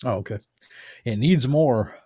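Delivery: ordinary delivery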